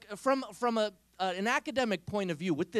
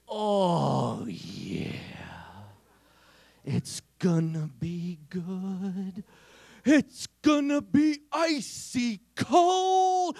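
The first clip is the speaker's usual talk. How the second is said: gleeful nephew; 4 dB louder, much slower than usual. Retold or imitated. Nephew gloating over his trap for sister, gloating shout. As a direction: savour it like a villain.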